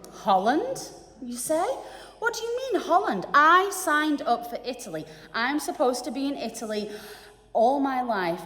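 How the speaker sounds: stunned traveller objecting to the stewardess; shocked disbelief. Acted. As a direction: cry out as if the plane landed in the wrong country. Shocked traveller protests wrong destination.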